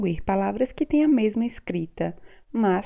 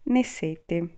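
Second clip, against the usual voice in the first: very slow example; much slower than usual. Shown as a demonstration. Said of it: "Por exemplo".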